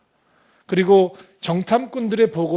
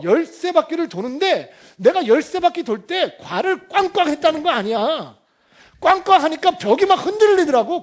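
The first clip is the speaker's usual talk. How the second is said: loud, high-pitched hammed-up bragging; mock boasting; 9 semitones higher, 6 dB louder than usual. Preacher imagines an Israelite bragging about Jericho, mock boasting. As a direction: brag at the top of your voice, stretching key words. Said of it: "여러분, 이런 상상이 되세요?".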